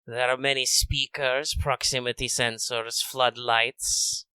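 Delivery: a hunter toying with his prey; Radamus lizard voice. Acted. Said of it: "I'm doing kind of a lizard man voice, so I have to roll my S's".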